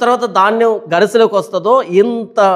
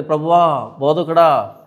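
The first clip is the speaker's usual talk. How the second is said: fallen at his feet in awe; hushed, reverent address to her teacher; 4 semitones lower, slower than usual. Acted. Mary falls at Jesus' feet.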